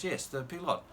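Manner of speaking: put-on pilot said as peelot, French vowels, light French accent; a touch of a French singer's accent on pilot; imitating a French singer, faint French accent on pilot; hint of French accent. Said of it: "I won't do the French accent".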